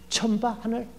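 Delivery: loud, exasperated mock scolding of a child; a mother yelling at her kid for tripping, half laughing. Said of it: "이러고 욕하지". (넘어질 뻔한 아이에게 소리치며 욕하는 엄마 흉내)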